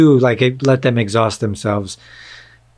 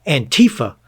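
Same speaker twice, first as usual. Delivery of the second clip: put-on alarmed pundit, rising higher on the repeat; mock pundit; 6 semitones higher than usual. Imitating conservative pundits going after a word, mock alarm. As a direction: mimic media pundits leaning hard on the name. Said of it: "and they say".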